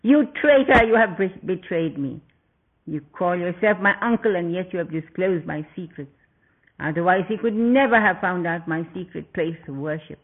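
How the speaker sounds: furious demon prince snarling; snarled. Acted. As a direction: spit out each accusation at the traitor. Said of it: "and snarled".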